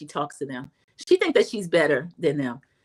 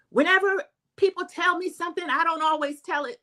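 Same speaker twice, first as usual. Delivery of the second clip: a mild mock yell of defence; 9 semitones higher than usual. Vlogger mimics Lisa yelling her defence, mildly. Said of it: "Lisa's yelling".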